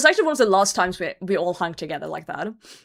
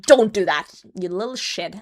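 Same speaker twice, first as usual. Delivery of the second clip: stern parent shout; 5 dB louder than usual. Pretend. Parent stopping a child throwing bread, loud scolding shout. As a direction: snap at the child to stop. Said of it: "I'd be like".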